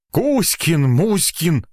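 mock the name crossly; angered. A narrator's reading. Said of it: "разозлился Маргуля".

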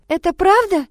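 high, loud stunned question; shocked question. A narrator's reading. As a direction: ask in disbelief. Потрясённая девочка спрашивает. (потрясённый вопрос)

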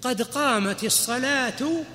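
slow, drawn-out example; slow demonstration. Shown as a demonstration. Teacher slowly demonstrates the phrase to students. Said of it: "إيش مثال الساكن؟".

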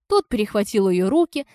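usual speaking voice

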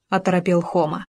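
ordinary delivery, nothing marked

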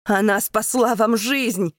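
loud, slow insistent cry; pleading shout. Acted. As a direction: hammer home that she saved them. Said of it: "кричит он".

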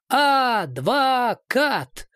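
high, slow mocking call; clowning shout. A narrator's reading. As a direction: drag it out like a fool calling. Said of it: "дурашливо закричал Орлов".

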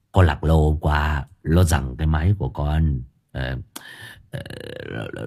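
half laugh half whimper. A narrator's reading. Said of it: "cười như mếu".

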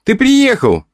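put-on high, ringing child's voice; ringing little girl's voice. A narrator's reading. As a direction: chirp it like a delighted little girl. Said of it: "звонко проговорила она и хихикнула".

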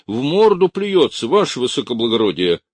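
high, loud complaining yell; indignant shout. A narrator's reading. Gendarme yelling to his officer that he was spat on. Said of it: "закричал жандарм".

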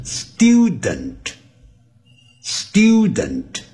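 student with a y-glide, "styoo-dent"; British-style student, stressed first syllable; British pronunciation. Shown as a demonstration. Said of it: "跟我们以前教的不一样".

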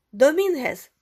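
high, loud call of his name. A narrator's reading. Gomez hails Dominguez at the billiard room, calling out. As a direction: call out to get his attention. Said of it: "гукнув Гомес".

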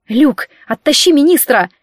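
emergency command; shouted order. Acted. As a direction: order it urgently. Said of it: "приказала я".

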